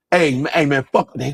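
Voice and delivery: lightly put-on Black American accent. Shown as a demonstration. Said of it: "Something about that black American accent".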